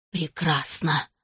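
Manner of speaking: put-on approving old ghost woman; fat ghost lady. A narrator's reading. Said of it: "одобрила толстая дама-призрак".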